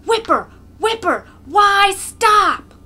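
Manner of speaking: high, loud jeering shouts; crowd shouts. A narrator's reading. The crowd jeering at Mokolka to keep whipping, shouting. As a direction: egg him on, bloodthirsty. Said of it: "Voices shout from the crowd".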